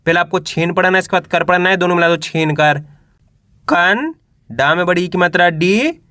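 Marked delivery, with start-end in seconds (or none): 3.7-6.0 very slow, drawn out syllable by syllable; patient teacher spelling the word aloud; slow syllable reading. Shown as a demonstration. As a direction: sound out each letter for young learners. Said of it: "दो दो करके पढ़ना है".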